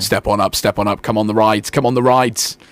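creepy fairground barker calling out; carnival barker. Shown as a demonstration. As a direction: lure people onto the rides. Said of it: "That's the creepiest carnival guy ever".

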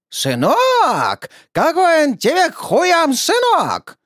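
high, loud, slow outraged sneer on сынок; furious mocking. Narrator mocks the old woman's сынок, loud and high. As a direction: throw her word back at her in fury.

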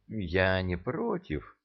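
hesitant, soft and slow; unsure drawl. Acted. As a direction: draw it out, unsure. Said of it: "неуверенно протянула царица".

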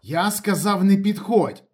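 high, loud dry-throated warning; parched, insistent voice. A narrator's reading. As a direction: repeat the warning, dry-mouthed. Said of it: "повторив Ніколаєч пересушеним голосом".

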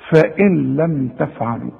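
فإن لم تفعلوا with the nun merged, soft and light; a quiet recited فإن لم تفعلوا; 1 full recitation. Shown as a demonstration. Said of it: "أنت قلت تفعلوا دي صحيحة".

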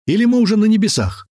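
high loud stunned question; dazed disbelief. A narrator's reading. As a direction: ask if this is heaven. Dazed Watari after fall. (ошеломлённый вопрос)

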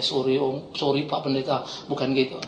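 low, soft, cowed mumble; meek apology. Retold or imitated. Cowed thug apologising to the pastor, retold meekly. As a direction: shrink back and apologise small.

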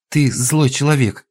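loud high slow accusing cry; furious tearful shout. A narrator's reading. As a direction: shout it at him. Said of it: "крикнула Кира".

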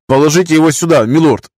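put-on high, trembling old man's voice; quavering voice. A narrator's reading. Master defies lord in a quavering high voice. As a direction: let the voice rattle and shake. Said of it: "кивнул мастер".

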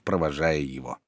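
plain reading voice

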